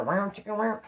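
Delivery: mouthed guitar riff; imitated guitar noise. Joking after giving up on accents, vocal guitar imitation. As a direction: make playful guitar sounds with the voice. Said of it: "do it on my guitar".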